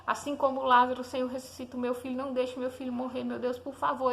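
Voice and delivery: retold prayer, mildly pleading in a steady run; súplica chorosa contida. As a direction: plead to God without open sobbing. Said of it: "eu comecei a chorar". (súplica chorosa, levemente encenada)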